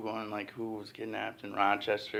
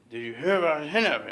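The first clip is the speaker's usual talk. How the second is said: cashier asking again; 5 semitones higher, 4 dB louder, faster than usual. Retold or imitated. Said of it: "And asked us again".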